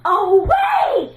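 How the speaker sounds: 1 triumphant shout. Pretend. Big finish of the dance song.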